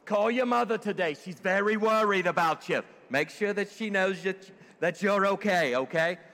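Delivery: playful put-on Jewish accent. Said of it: "my best Jewish voice".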